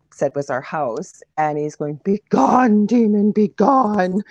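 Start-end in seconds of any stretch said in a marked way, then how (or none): 2.0-4.2 loud, high, hammed-up exorcism cry; mock a cheesy psychic banishing a demon, drawn out at the end. Woman mocking the reenactment psychic banishing a demon, hammed-up and cheesy. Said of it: "it was really cheesy".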